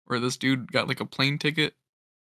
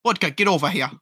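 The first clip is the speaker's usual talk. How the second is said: mock Russian accent; 4 semitones higher, faster than usual. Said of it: "Or, like, Russian".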